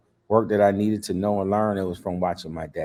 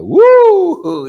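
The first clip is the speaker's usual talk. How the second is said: loud, high startled woo; a sudden gasp of shock as the tension spikes; the wife yelping at the standoff; 12 dB louder than usual. Retold or imitated. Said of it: "My wife's like".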